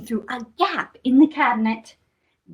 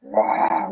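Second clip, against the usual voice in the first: low playful roar; lion roar; 8 semitones lower than usual. Pretend. Storyteller prompting children to roar, playful lion roar. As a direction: growl out a pretend lion roar. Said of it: "where's your lion roar?".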